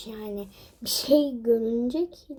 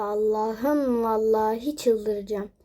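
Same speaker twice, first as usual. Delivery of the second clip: exasperated; slower than usual. Real, not acted.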